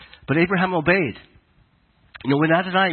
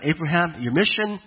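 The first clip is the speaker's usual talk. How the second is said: voice of God speaking; 3 semitones higher than usual. Acted. Preacher voicing God commissioning Abraham, a hint of majestic proclamation. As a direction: proclaim it as a grand calling, mostly in your own voice. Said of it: "essentially told Abraham".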